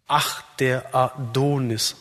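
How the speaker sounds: slow "Ach, der Adonis", stressing "Ach" and the "do" of "Adonis"; metrical scansion. Shown as a demonstration. Speaker demonstrates the adonic verse, "Ach, der Adonis" in slow stressed-unstressed meter. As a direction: scan "Ach, der Adonis" slowly, beats on "Ach" and "do". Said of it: "Betont, unbetont, unbetont, betont, unbetont".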